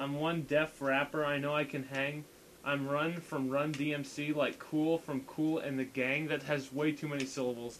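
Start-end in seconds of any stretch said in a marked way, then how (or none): 0.0-6.3 deadpan. Shown as a demonstration. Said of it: "like, dead-, deadpan voice".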